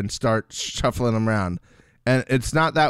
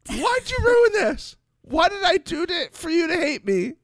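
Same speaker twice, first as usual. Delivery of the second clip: mimicking James.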